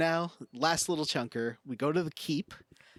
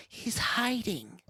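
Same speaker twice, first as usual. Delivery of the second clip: whisper; 8 semitones higher, slower than usual. Retold or imitated. Samantha senses Ashley hiding nearby.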